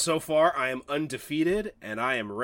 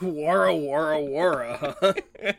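laughing gobble noise; 3 semitones higher, 5 dB louder, slower than usual. Acted. Mocking the eating noise.

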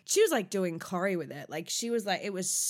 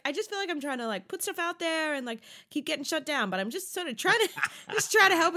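high, small, pleading voice; mocking Charlotte as a wounded little girl; poor little girl; 7 semitones higher, faster than usual. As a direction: whimper it like a hurt little girl. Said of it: "like a poor little girl".

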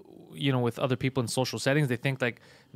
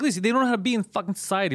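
higher, fast, worked-up call-out; heated rant; 6 semitones higher, faster than usual. Retold or imitated. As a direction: rattle it off hotly at the rude crowd. Calling out the crowd upstairs.

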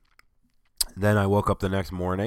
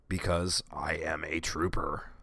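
hushed self-mocking whisper; whispered boast; 4 semitones lower, 9 dB quieter than usual. Real, not acted. Bragging about skipping the doctor, in a whisper. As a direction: whisper it as a wry joke.

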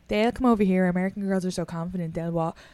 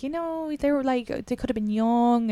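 much higher, insistent upbeat urging; overconfident friend; 7 semitones higher than usual. Retold or imitated. Friend urging the orphan to find his parents, high and insistent. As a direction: push your advice brightly and confidently. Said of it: "she was like".

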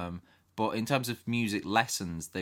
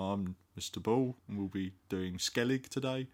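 slightly nasal Cockney teacher; Mister Ball. Retold or imitated. English teacher announcing today's book to class, nasal Cockney impression. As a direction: lightly imitate a nasal Cockney accent. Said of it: "nasally, cockney sort of voice".

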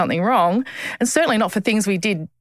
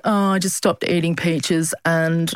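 mock airy; 3 semitones lower, slower than usual. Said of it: "bullshit answer".

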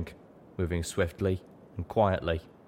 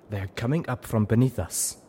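higher urgent zebra warning; Zenith's raised warning; 4 semitones higher than usual. A narrator's reading. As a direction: warn the group of danger below. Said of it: "Zenith warned".

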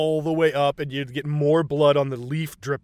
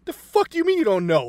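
mock angry Dutch; 10 semitones higher, 3 dB louder, faster than usual. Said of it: "Dutch turns around like".

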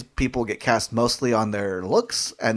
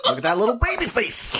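laughing coo; 10 semitones higher than usual. Real, not acted. Cooing at baby-faced photo.

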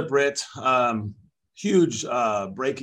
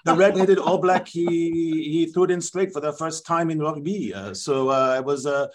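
lightly put-on French referee explaining himself; a hint of a French accent, rambling excuses; the speaker voicing a French referee in a French accent; mock French accent. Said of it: "this is my actual interview".

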